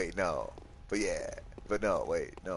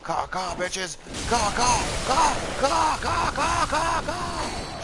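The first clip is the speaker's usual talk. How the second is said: shrill, rising crow cawing, much higher and louder; crow caws; 5 dB louder, much slower than usual. Pretend. Cawing back at the attacking crows, high mock crow squawks.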